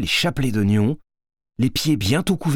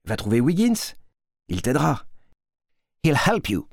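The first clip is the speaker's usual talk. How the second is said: Louis advising; 3 semitones higher than usual. A narrator's reading. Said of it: "lui a dit Louis".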